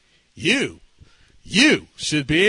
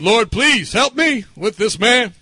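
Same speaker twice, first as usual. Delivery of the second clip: slow, louder plea to God; retold pleading prayer; 6 dB louder, slower than usual. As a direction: act out begging the Lord for help. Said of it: "I was praying that".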